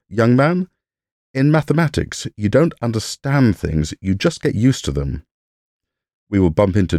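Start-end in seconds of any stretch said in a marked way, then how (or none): 0.1-5.3 mock Hungarian accent, lightly done. Von Neumann advising a young man, in a light Hungarian accent. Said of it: "in a Hungarian accent".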